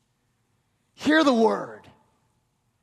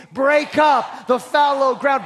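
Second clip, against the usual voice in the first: shouted call; 2 semitones higher, 4 dB louder than usual. Shown as a demonstration. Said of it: "Shout it with me".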